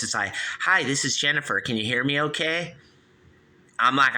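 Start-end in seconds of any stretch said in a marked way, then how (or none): 0.6-2.7 lightly voiced robocall agent, higher pitch; different robocaller. Second spam robot introduces itself on a call, lightly imitated robot. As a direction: imitate an automated caller, a bit higher. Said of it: "then it's a different voice".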